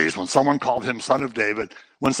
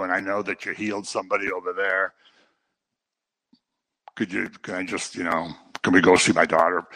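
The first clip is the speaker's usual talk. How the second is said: mock hesitant request; 4 semitones lower than usual. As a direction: imitate someone meekly working up to a favor. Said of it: "she's not just saying".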